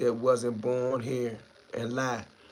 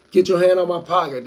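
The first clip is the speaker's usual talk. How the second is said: pretend shout; 4 semitones higher, 7 dB louder than usual. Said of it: "That mean come in with that bang bang".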